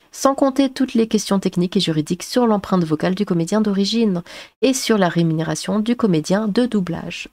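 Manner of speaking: even, measured reading voice; article read-aloud. Acted. Vlogger reading out an article on AI dubbing, read-aloud. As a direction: read it out like a written report.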